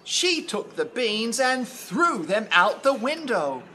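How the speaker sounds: lively storybook reading, lifting on big moments; story narration. A narrator's reading. Telling of Jack's climb, expressive storytelling. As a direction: read with growing wonder for children.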